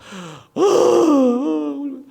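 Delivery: high, loud mimicked crying; imitated sister's wail. Sister starting to cry for her brother, mimicked wailing. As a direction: burst into an acted drawn-out wail. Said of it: "저희 누나가 울기 시작하는 거예요".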